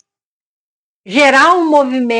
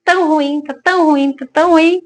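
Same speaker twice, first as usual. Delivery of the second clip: mock the endless job complaints, pitched up; whiny complaint; 2 semitones higher than usual. People complaining about their job.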